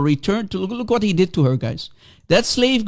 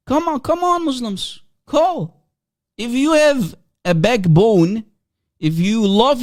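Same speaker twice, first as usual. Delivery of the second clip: taunting challenge; 4 semitones higher than usual. Real, not acted. Taunting Muslims to call in.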